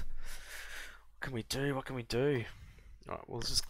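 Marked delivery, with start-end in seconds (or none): 0.0-1.8 whispered and slow, musing. Real, not acted. Planning his next move, a slow whisper. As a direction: breathe the question to yourself slowly. Repeated question, whispered slowly.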